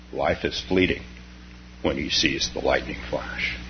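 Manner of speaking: measured poem reading with falling line ends; poem recital. Acted. Teacher reciting a Zen poem to students, measured and settling.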